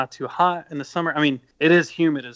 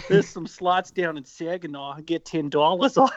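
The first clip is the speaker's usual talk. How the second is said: hammed-up Michigan accent breaking into laughter; attempted Michigan accent; 2 semitones higher than usual. Bandmate joking about Saginaw slots, failed Michigan accent. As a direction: try a Michigan accent and crack up. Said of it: "I can't do it".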